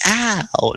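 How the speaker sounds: high, light yelp of mild pain; mock child's ow. Child gently swatted over the head, mock yelp. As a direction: play a small, high "ow". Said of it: "a hand go right over the head very gently".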